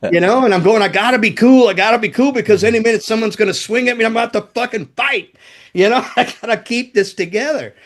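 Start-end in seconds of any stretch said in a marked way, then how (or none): 0.8-5.3 higher, fast and wound up; pitched-up, hurried inner panic; retold frantic self-talk. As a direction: talk yourself down in a rush. Retells frantic talk to himself.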